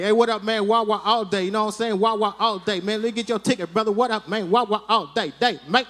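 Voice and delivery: lightly voiced street-slang clerk; a hint of a chummy hip-hop clerk; hip-hop rant. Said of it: "whole Wigger rant".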